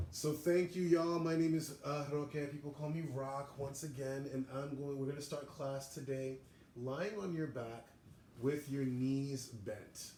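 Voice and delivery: yoga class instruction. Real, not acted. Yoga teacher opening class for students at home, projected instruction.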